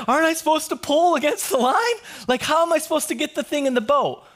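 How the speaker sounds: high, bewildered protest; acted-out helpless objection; protesting friend. Friend arguing back to yelling captain.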